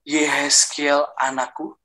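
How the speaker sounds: slow, drawn-out call to a son; calling divine voice. Retold or imitated. Heavenly voice calling the man as son, slow call. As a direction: stretch out the name as an imitated calling voice. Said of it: "Suara itu bilang kayak gini".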